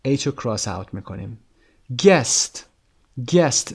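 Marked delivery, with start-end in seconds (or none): 2.0-3.7 Guest said high and loud, slow and clear; model word. Shown as a demonstration. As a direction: model Guest for the class to repeat. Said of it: "صدای یو نداریم اینجا".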